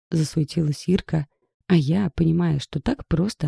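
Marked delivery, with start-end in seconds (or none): none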